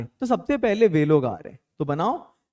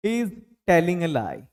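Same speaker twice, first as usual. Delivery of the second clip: slow model sentence; much slower than usual. Shown as a demonstration. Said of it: "वो झूठ बोल रहा है".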